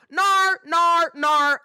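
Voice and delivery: high, loud mock British refusals; toddler's British accent. Nanny re-enacting the boy's refusal, loud British accent. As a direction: blare it like a copycat toddler's British "no". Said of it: "now he's picked it up".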